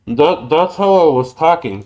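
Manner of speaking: muffled behind cupped hands; talking through covered mouth. Shown as a demonstration. Showing a friend his underwater voice, muffled through hands. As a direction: speak with hands over mouth and nose. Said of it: "that's how I was able to communicate like this".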